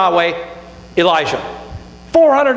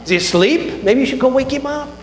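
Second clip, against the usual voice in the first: mocking. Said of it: "he's over here mocking them".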